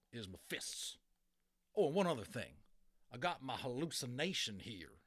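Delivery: lightly voiced tough cowboy; cowboy challenge. Cowboy boasts before fight.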